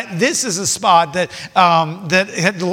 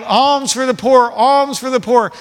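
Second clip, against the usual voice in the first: mock beggar's cry, louder and higher; 5 semitones higher, 4 dB louder than usual. Blind beggar to passers-by on the road, crying out. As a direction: call out slowly, raised pitch. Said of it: "he's crying out".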